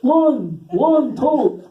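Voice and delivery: high, loud puppet counting voice; hammed-up theatrical counting. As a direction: count grandly with ringing, stretched vowels. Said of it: "I always picture him going".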